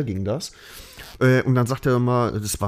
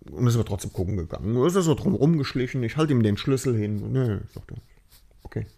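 ordinary talk

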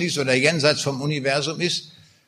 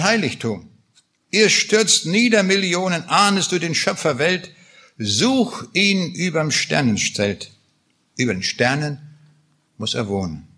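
solemn recitation, swelling up on the Millionen line; poem recital. Acted. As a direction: declaim the ode with rising pathos, then let it sink. Recites Schiller's Ode to Joy.

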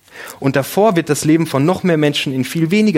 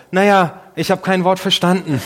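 put-on higher, small child's voice asking; imitating young son; 6 semitones higher than usual. Son calling to his dad from the back seat, higher child voice. Son's punchline answer.

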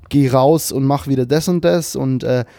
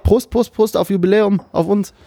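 excited toast; 7 semitones higher than usual. Real, not acted. Toasting with wine glass.

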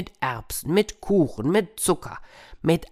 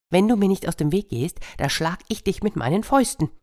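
threatening hare; 5 semitones higher, faster than usual. Acted.

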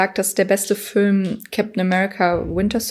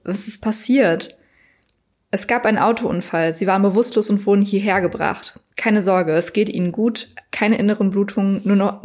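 even read-aloud storytelling with lightly voiced dialogue; story narration. A narrator's reading. Host reads on from the pizzeria cliffhanger, story narration. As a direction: read the chapter aloud, measured and continuous.

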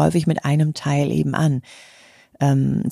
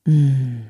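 contented hum. Shown as a demonstration. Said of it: "dieser Wohlfühllaut".

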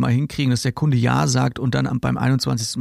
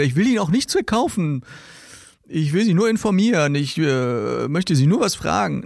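higher, eager salesman excuse; mock salesman; 3 semitones higher than usual. Salesman excuses himself to the customer, higher eager mock voice. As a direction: play the caller pretending he only wants to inform.

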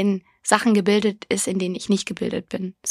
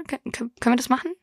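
a hint of a nervous husband stammering; lightly voiced meek man asking his wife; stammering timid husband; 4 dB quieter, faster than usual. Mimicking a meek husband asking his wife, stammering fast.

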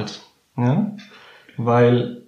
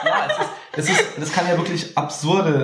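laughing; 5 semitones higher than usual. Real, not acted. Laughing at an absurd joke.

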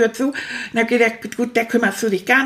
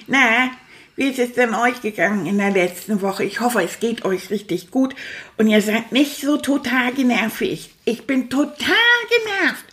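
put-on chatty, cheeky puppet rat rambling to the kids; stuffed rat puppet. Stuffed rat Manfred grumbles to his young viewers, in a puppet voice. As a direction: play the grumpy little rat who loves to talk.

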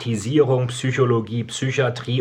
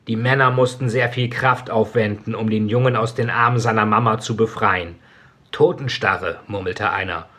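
story narration. A narrator's reading. Author reading his dark novel to listeners, solemn narration. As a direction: read it like a hushed tragic audiobook.

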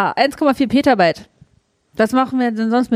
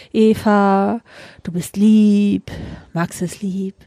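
calming self-talk; 3 semitones lower, slower than usual. Retold or imitated. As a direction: talk yourself down gently. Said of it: "Und dann denk ich".

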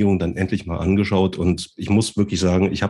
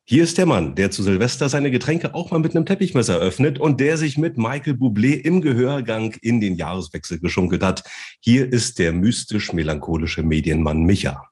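boxing ring announcer; 3 semitones higher than usual. Pretend. Introducing co-host like a fighter.

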